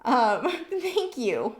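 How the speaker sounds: very slow, laughing through tears; a choked, grateful thank you; teary, half-laughing thanks. Real, not acted. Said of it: "all teary and weepy girly".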